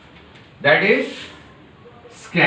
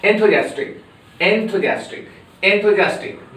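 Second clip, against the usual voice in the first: enthusiastic at normal quick speed; brisk enthusiastic; 2 semitones higher than usual. Shown as a demonstration. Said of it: "but rapidly you should speak".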